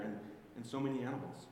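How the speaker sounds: "And, and so many animals" tossed off fast and dismissively; fast, wry throwaway of the last line; quick mocking repeat. Shown as a demonstration. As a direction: rattle it off like a punchline. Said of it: "Why else would God put it in there?".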